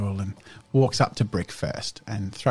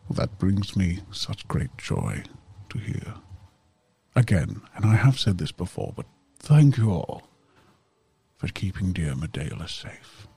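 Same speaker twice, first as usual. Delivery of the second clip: measured, heartfelt in-character thanks; grateful guardian; 2 semitones lower than usual. Acted. Character thanking Medela's protectors, grateful and measured.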